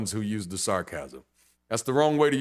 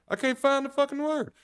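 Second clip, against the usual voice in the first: frustrated outburst. Real, not acted. To listeners, cursing a lost word, frustrated yelp. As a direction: burst out in frustration at yourself.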